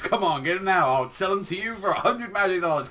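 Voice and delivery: pushy saleswoman. Retold or imitated. Girl pushing cloaks on the group, pushy sales pitch. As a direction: hawk the cloaks like a market trader.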